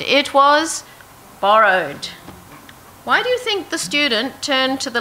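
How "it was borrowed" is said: dismayed cry. Acted. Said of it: "he cried".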